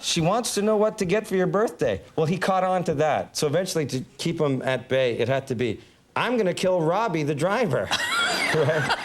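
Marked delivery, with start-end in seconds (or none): 0.0-2.0 higher, stagey recital; pretend line-reading. Assistant hiding a message from the driver, stagey higher voice. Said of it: "pretend like I was running lines". 6.1-7.9 slightly raised stagey declaration; mock-dramatic script line; pretend line-reading. Actor keeping the driver at bay, fake movie dialogue. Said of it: "pretend like I was running lines".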